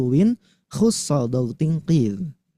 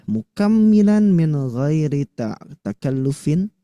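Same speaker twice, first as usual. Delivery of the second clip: 1 recited Arabic quote; 4 semitones higher, slower than usual. Shown as a demonstration. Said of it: "harus sempurna, natural".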